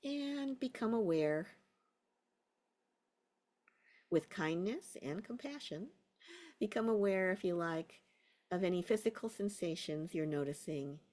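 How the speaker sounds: unhurried guiding voice with long pauses; guided meditation. Real, not acted. Teacher settling a class into a body scan, guided meditation. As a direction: ease them into a body scan. Guides attention through feet and toes.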